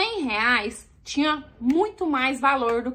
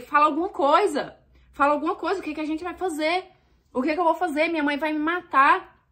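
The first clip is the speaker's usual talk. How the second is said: mock tearful pleading; 3 semitones higher than usual. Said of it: "eu chorando".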